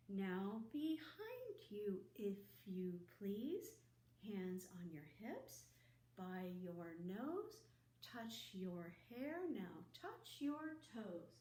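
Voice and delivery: slow sing-song movement rhyme; teacher leading a movement chant; slow action rhyme. Acted. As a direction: guide little kids through a rhyme, slowly.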